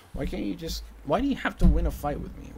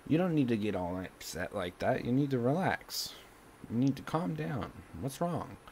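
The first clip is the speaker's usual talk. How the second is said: calming someone down; 5 dB quieter than usual. Acted. Acts out soothing upset mom.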